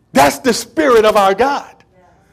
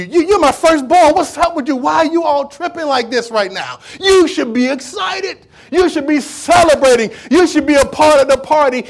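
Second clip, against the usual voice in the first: exasperated father; 4 semitones higher than usual. Acted. Father remonstrates with jealous son.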